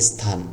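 স্থান said "sthaan", opening on an English s; স্থান, starting with a clear s. Shown as a demonstration. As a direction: begin স্থান with a sharp s, then th. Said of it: "প্রথমে এটাকে এস ধরবেন".

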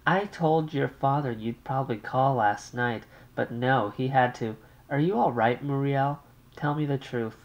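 an anxious mother on the line. Acted.

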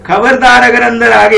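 lightly acted stern papa; mock stern father. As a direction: draw out the threat like a strict dad. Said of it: "क्या बोलते हैं".

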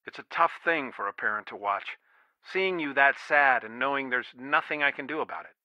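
low, soft and regretful; subdued sorrow. Acted. Father remembering his daughter's sadness, subdued sorrow. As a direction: recall your child's grief, helpless.

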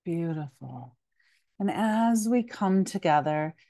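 calm yoga nidra guidance with long pauses; unhurried meditation teacher's voice; guided meditation. Acted. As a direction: gently lead listeners into rest, leaving space between phrases.

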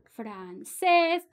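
"francés" drawn out with weight on "cés"; stress on final syllable. Shown as a demonstration. Teacher showing where francés takes its accent, final stress on "cés". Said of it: "francés lleva acento".

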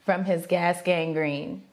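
slow, low-pitched recital; deadpan challenge read. Real, not acted. Giving the partner a phrase to guess, deadpan.

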